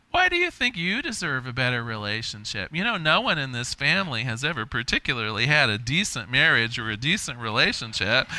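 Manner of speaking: lightly voiced strict aunt; a hint of a disapproving aunt; maiden aunt. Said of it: "that little voice is saying things like".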